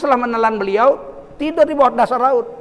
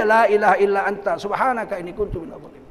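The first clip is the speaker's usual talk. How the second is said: recited prayer; 2 semitones lower, 3 dB quieter than usual. Shown as a demonstration. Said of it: "Zikir aja".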